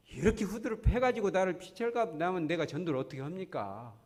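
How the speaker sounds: a touch of exasperated protest; complaining prayer. Acted. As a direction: imitate Paul grumbling to God. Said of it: "원망 불평부터 나오는 거예요".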